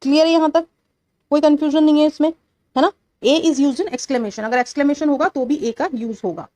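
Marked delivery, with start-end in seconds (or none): 3.2-4.4 slow, deliberate dictation pace; drawn-out classroom dictation. Shown as a demonstration. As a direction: read the rule out word by word for notes. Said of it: "dictating the rule".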